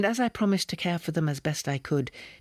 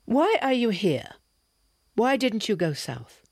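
urgent questioning; 8 semitones higher, 4 dB louder than usual. Acted. Slavkin confronts her urgently.

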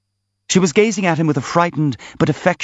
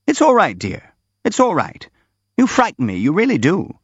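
much higher-pitched character voice; anxious, reassuring figure; 7 semitones higher than usual. Acted. Reassuring the prince who frightens them, high and anxious. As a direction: soothe in a high, worried voice.

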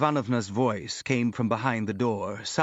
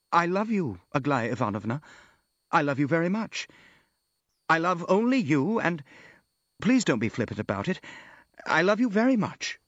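higher-pitched, halting avowal; pleading, sincere suitor; earnest declaration of love; 6 semitones higher than usual. A narrator's reading. Prince declares love to Aglaya.

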